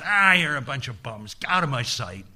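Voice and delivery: loud burst of disgust, then dropping off; mock fury. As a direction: dismiss them like useless underlings. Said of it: "And Mara is furious".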